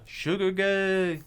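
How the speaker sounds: high, slow sing-out call; casual heckle. Retold or imitated. Repeating how the kid taunted the singer, drawn-out casual holler. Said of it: "he just said it so casually, though".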